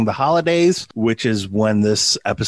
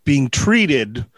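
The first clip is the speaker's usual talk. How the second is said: put-on Tesla accent. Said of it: "my spot-on Nikolai Tesla accent".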